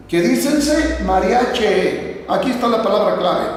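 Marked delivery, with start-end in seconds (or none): 1.1-2.2 MARIACHE ending in a clear E sound; mariache with final E. Shown as a demonstration. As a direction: draw out "mariache", closing on an open E, not I. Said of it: "con E".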